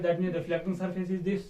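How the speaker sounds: slow, spelled-out dictation pace; teacher dictating to the class. Shown as a demonstration. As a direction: read it out slowly for notes.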